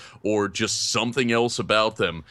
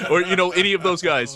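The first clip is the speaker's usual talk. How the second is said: laughing; 10 semitones higher, 4 dB louder than usual. Real, not acted. Laughing at his own joke.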